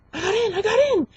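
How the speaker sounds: high-pitched excited squeal; going nuts. Retold or imitated. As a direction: imitate a crowd squealing with joy. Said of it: "all the Facebook group was going nuts".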